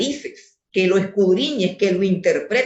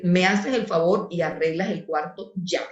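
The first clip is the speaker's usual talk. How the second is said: firm, level mother's order, not shouted; firm command; 3 semitones lower, 4 dB quieter than usual. Shown as a demonstration. Mother firmly orders her child to clean the room. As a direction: give the order with quiet authority. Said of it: "La mamá tiene que decir".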